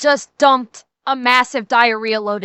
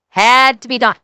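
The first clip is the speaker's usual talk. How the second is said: louder; 3 semitones lower, 4 dB louder than usual. Real, not acted. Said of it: "I realize how obvious this is".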